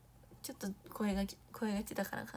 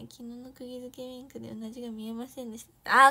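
ordinary talk, nothing marked

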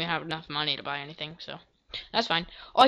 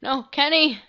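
raised, higher cry of no; calling out; 6 semitones higher, 4 dB louder than usual. Real, not acted. Player shouting at Kenny in the game, raised. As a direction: stop Kenny with a quick shout.

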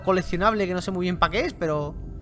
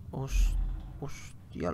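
whispered; 5 semitones lower, 7 dB quieter, much slower than usual. Real, not acted. Sudden scare, whispered.

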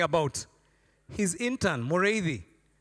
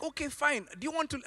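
frustrated pastor; 8 semitones higher, 4 dB quieter than usual. Retold or imitated. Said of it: "He's like".

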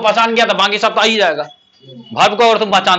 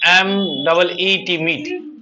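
spelling it out; 3 semitones lower, 5 dB quieter, much slower than usual. Shown as a demonstration. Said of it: "मिलना का होता है मीट".

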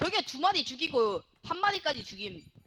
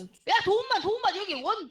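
urgent calling; 6 semitones higher than usual. Real, not acted. Calling for help in game.

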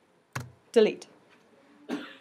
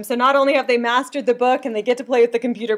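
usual speaking voice

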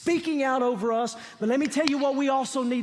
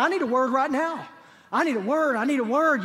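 a needy plea, growing a bit louder each time; pleading seeker, building; 2 semitones higher, 3 dB louder than usual. Retold or imitated. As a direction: beg for a word like someone desperate. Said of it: "Come on".

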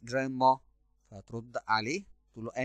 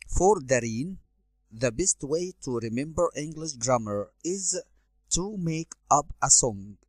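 careful classroom reading; slow, clear read-aloud; 4 dB louder, much slower than usual. Shown as a demonstration. Teacher reading the Dareen passage to students, slow and clear. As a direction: read each phrase slowly, a bit louder.

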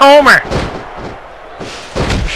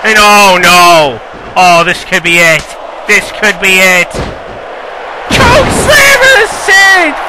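wrestling commentator. Acted. Live wrestling match commentary.

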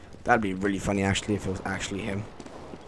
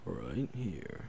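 hushed, much softer, half whispered; stealthy whisper; 3 semitones lower, 13 dB quieter than usual. Real, not acted. Hiding in a corner waiting for an enemy, whispering. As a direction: keep it low so nobody hears you. Sneaking up in game.

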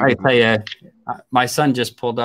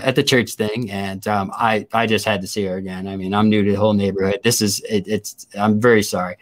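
contrite apology; 5 semitones lower than usual. Retold or imitated. Retold apology resumes after aside.

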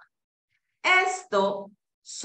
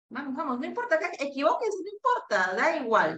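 higher, quick reassuring urging; encouraging; 4 semitones higher, faster than usual. Real, not acted. Teacher urging students to risk mistakes, encouraging. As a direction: coax them, it's no big deal. Coaxing shy students to answer.

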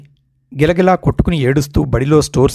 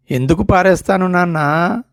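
put-on పారేస్తాను lifted higher with a rising end, childlike; earnest boy; 5 semitones higher than usual. Boy reassuring his father he kept the money, eager and high.

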